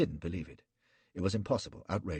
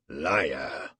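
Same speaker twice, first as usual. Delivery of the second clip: cold accusation; 5 dB louder than usual. Acted. Gul accuses.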